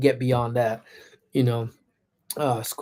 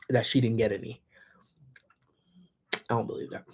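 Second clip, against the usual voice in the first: whispered aside; 6 dB quieter, faster than usual. Real, not acted. Streamer teasing Maria to chat, whispered. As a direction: whisper the end as a teasing secret.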